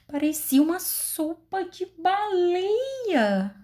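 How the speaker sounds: high, slow amazed repeat; astonished. Shown as a demonstration. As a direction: say it in wonder. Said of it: "eu falei espantada".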